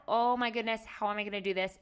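overwhelmed exclamation, a touch of panic; freaking out. Retold or imitated. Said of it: "And I was freaking out".

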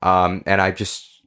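holding back tears. Acted. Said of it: "so I told myself I wouldn't cry".

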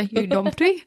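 half-hearted attempt at a Scottish accent; bad Scottish accent. Repeating her colleague's supposed insult, bad Scottish accent. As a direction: try Scottish and not quite manage it. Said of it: "I can't do a Scottish accent at all".

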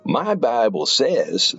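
slow, high, smug mockery of a pastor; slow mock-smug childish quote; self-righteous mocking quote. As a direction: mimic a smug know-it-all. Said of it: "That sounds so self-righteous and so childish".

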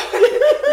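high, loud burst of laughter. Real, not acted. Guest cracking up over her English troubles. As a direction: let a big real laugh out.

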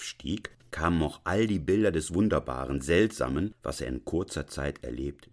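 lilting, measured literary reading; story narration. A narrator's reading. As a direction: read the classic tale aloud, savouring long phrases. Reads Hoffmann story aloud.

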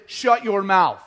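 loud, forceful acted command; stern rebuke. Jesus grabbing Peter and looking at him, stern. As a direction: put someone firmly in their place. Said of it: "It says very sternly".

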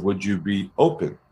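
calm, lightly softened ask; open question. Shown as a demonstration. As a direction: offer it gently, as an open question. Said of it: "if you heard what I said".

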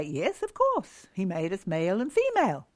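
quick, offhand shrug of a line; breezy dismissal. Retold or imitated. Readers brushing off the familiar verse, breezily. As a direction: toss it off as obvious. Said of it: "because we say".

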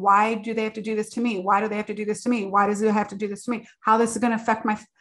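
replaying a spiral of worry at speed; anxious spiral. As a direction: spin out the worried thoughts, tumbling over each other. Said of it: "if me talking like that is already making you stressed out".

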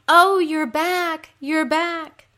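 high, loud, drawn-out sympathy wail; echoed moan. Acted. Creatures sharing the queen's pain, echoed moan. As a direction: moan right back at her. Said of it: "the creatures moan".

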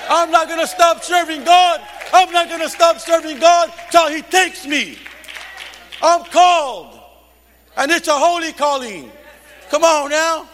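shouted vow to keep serving God; fiery preaching. Real, not acted. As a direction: proclaim it to the church. Preaching at full force.

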